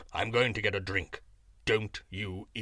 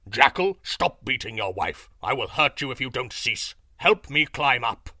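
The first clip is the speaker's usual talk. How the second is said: lion roaring; 6 dB louder than usual. A narrator's reading. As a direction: roar the threat up the hill.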